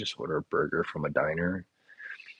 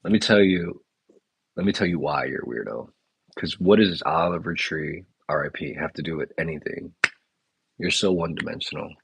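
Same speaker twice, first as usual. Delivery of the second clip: louder, hammed-up scolding of a commenter; mock angry rant; 4 dB louder than usual. Ranting at a chat commenter, mock angry and louder. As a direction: tell the chatter off, half-joking, louder.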